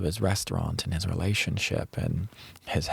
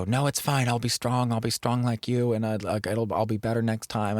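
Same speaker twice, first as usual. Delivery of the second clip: lightly voiced boyfriend, pitched higher, putting on a brave face; a hint of him insisting he's fine, higher; forced brave reassurance; 4 semitones higher than usual. Partner deflecting comfort, insisting he'll be strong, mildly higher and brave. Boyfriend brushing off his sadness.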